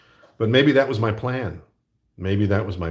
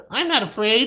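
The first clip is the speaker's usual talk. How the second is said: Luke; 13 semitones higher, 3 dB louder than usual. Retold or imitated. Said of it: "like when he's like".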